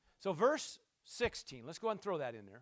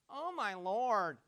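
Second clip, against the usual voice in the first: slow, drawn-out "oh, my Lord"; imitated doubting reply; slower than usual. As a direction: stretch each word, acting out the doubter. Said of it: "I believe that's how he said".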